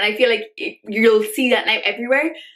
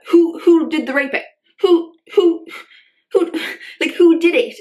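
higher, louder, insistent who; indignant demand; 6 semitones higher, 4 dB louder than usual. Real, not acted. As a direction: demand an answer. Angry demand about the headline.

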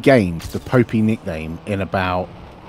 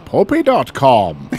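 bad Scottish accent; 6 semitones higher, 7 dB louder, much slower than usual. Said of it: "That's not a Scottish accent".

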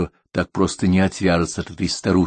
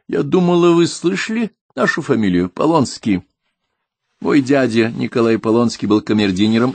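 voiced higher as a proud old lady; haughty old émigré lady, higher; 7 semitones higher, 4 dB louder than usual. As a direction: speak like a stern aristocratic old woman. Narrator voices old Madame Polonskaya.

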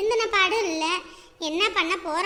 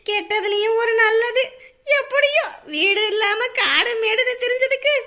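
gleeful; 2 semitones higher, 4 dB louder than usual. Acted. Homeless patient finally going back home, gleeful. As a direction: rise to a loud, delighted finish.

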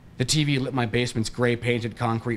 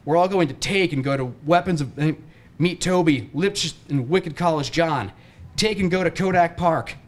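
yelling order; 6 semitones higher than usual. A narrator's reading. Friend on the phone ordering, yelling. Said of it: "he yells again".

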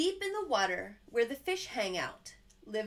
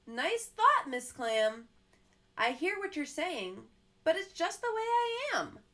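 mildly voiced gloomy fish; resigned fish; 5 semitones higher, 4 dB louder than usual. Fish answering Miss Clam with a touch of resignation. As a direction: shrug it off, glum.

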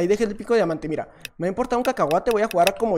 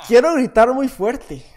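held-back urge to yell; 3 semitones higher, 6 dB louder, slower than usual. Real, not acted. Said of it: "gritar de la manera en la que quiero gritar".

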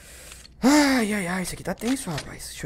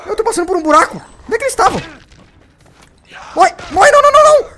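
very high, loud frightened cries; panicked shrieking; 14 dB louder, faster than usual. Real, not acted. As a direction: shriek while being attacked. Zombies attacking, panic. (gritos de pânico muito agudos)

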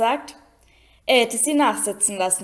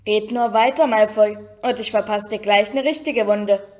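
louder snapped warning; barked threat; 4 dB louder than usual. Acted. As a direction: snap it at the bully. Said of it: "blaffte ihn Ron an".

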